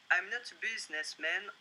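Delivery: French-accented English, "not" stressed with a rise. Shown as a demonstration. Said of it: "Excusez-moi pour mon accent".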